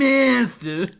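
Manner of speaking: put-on "Landmaster." in a light New York accent, ending "mastu", rising; a quick echo of "Landmaster." as "lændmastu"; imitating Falco. Caster echoing Falco's "Landmaster." in a lighter New York lilt. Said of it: "He goes landmaster".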